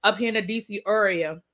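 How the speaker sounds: DC accent. Shown as a demonstration. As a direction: lean into the D C accent on "D C area". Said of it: "I have to put my accent on it".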